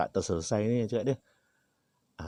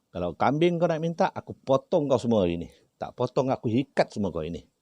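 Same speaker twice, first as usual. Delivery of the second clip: stern refusal; 4 semitones higher, 4 dB louder than usual. Retold or imitated. Refusing spirit's demand for goat.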